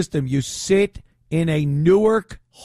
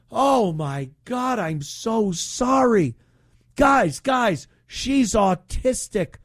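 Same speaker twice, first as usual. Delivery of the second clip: mock apology; 5 semitones higher, slower than usual. Mock apologetic cop, sarcastic.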